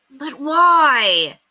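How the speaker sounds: high, loud pleading; loud high desperate question. A narrator's reading. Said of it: "Henry was desperate".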